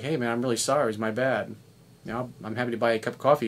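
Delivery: gently defuse the tension; calm apology. Retold or imitated. Friend calming the driver he cut off, softly apologetic. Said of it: "bring calmness".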